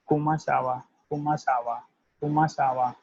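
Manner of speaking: Como ça va said as "ko-ma sa va"; French greeting drill. Shown as a demonstration. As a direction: model the question for learners. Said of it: "it will be delivered as".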